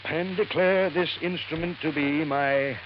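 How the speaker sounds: measured, solemn reading with pauses; formal will reading. Acted. Lawyer reading the will to waiting heirs, formally. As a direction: read out a legal document, phrase by phrase.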